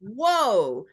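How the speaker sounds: loud, drawn-out whoa, rising then falling; amazed whoa. Retold or imitated. Newcomer hearing others share the same struggles, amazed. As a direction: let out a big, high, stunned reaction. Acts out her amazed reaction to group.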